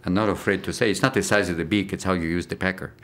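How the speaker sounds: lightly voiced Argentinian accent; a cocky little penguin with an Argentinian accent. Actor showing his penguin character, mock Argentinian accent. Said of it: "Playing a little Argentinian penguin".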